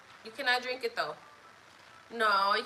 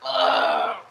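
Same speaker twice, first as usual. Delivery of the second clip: grunt; 9 dB louder than usual. Real, not acted. Exasperated noise between remarks.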